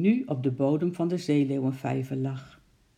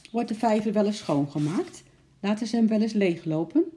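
higher, eager hopeful asking; hopeful question; 6 semitones higher than usual. A narrator's reading. Lady hopefully asking the keeper about the pond. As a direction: ask it full of new hope. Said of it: "vroeg toen hoopvol".

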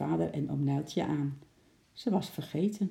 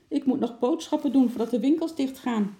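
higher, louder, irritated woman's voice; angry call; 8 semitones higher, 5 dB louder than usual. A narrator's reading. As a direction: call out in mild anger, pitched up. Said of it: "riep een boze mevrouw".

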